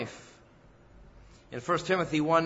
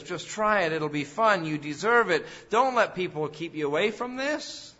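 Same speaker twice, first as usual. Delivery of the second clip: louder, eager little sales pitch from the devil; tempting devil; 5 semitones higher, 4 dB louder than usual. Acted. Preacher voicing the devil as a friend, louder and coaxing. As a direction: egg them on like a pushy friend. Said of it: "that says".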